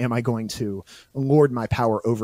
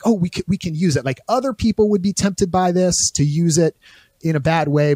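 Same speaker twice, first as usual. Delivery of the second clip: mock Boromir; 5 semitones higher, 4 dB louder than usual. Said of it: "then he's like".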